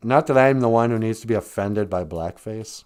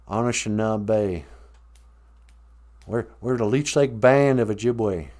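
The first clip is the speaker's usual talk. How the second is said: mock Southern drawl, drawn-out stressed words; playing a proud redneck, Southern accent. Warning outsiders not to mess with Anishinaabe, mock redneck accent. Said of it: "if we all talk like rednecks".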